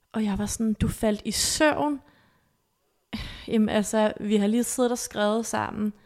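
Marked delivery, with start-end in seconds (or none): 0.7-2.0 incredulous. Retold or imitated. Retelling her disbelief at his text.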